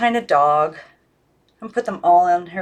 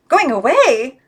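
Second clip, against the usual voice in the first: Miss Christabel in a higher pitched, louder voice; high doll voice; 7 semitones higher, 5 dB louder than usual. A narrator's reading. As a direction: lift into a high, pleading doll voice. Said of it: "she said in a high voice".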